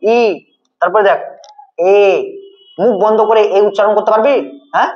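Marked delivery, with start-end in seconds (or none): 0.0-0.2 long ই with lips spread wide; drawn-out vowel demo. Shown as a demonstration. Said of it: "মুখটা আমাদের একটু প্রসারিত হচ্ছে". 1.9-1.9 long এ with lips spread; drawn-out vowel demo. Shown as a demonstration. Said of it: "দেখবি যেরকম ধর উচ্চারণ কর".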